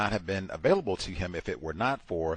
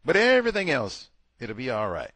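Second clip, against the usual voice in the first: mock reassurance; 3 semitones higher, 5 dB louder than usual. Mock reassurance to migrating man.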